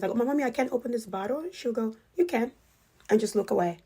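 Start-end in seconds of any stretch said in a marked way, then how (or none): 0.1-1.4 put-on child's whine. 2.2-2.5 breezy, offhand mom brushing it off; casual. Retold or imitated. Mom brushing off her four-year-old, casual and offhand. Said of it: "Like, very casual".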